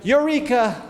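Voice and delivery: a burst of delight at a new idea; excited shout. A narrator's reading. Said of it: "until he shouted".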